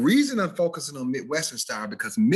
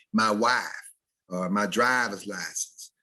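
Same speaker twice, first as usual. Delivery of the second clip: East Mississippi drawl with flattened long I; "wahf" and "drahver's lahcense", East Mississippi Southern; East Mississippi accent; 2 semitones lower than usual. Shown as a demonstration. Teacher showing a Mississippi subdialect, East Mississippi accent. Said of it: "if you're from East Mississippi".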